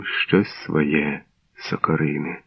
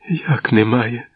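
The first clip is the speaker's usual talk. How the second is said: whimpering cry; 6 semitones higher, slower than usual. A narrator's reading. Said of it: "кигикнула мати".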